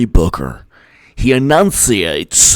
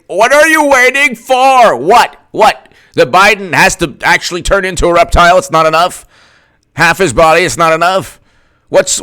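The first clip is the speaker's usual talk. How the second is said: high, loud, incredulous ranting; exasperated rant; 6 semitones higher, 4 dB louder than usual. Retold or imitated. Mocking the other side's excuses, high exasperated rant. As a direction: pile on the disbelief, voice up and loud. Ranting as frustrated Trump fan.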